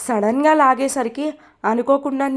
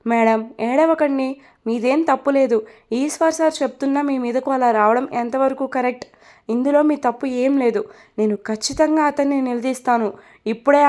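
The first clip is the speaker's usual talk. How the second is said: comforting. Acted. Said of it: "Supriya ఓదారుస్తూ".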